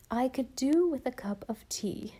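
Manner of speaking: a touch of plaintive, sighing aunt; mildly self-pitying ask for tea. Acted. Aunt sighing for tea after the scare, mildly plaintive. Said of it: "sighed Aunt Mary Maria plaintively".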